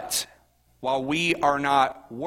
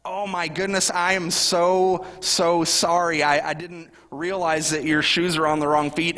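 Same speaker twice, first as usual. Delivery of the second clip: sorry parent; 3 semitones higher than usual. Retold or imitated. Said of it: "and you're like".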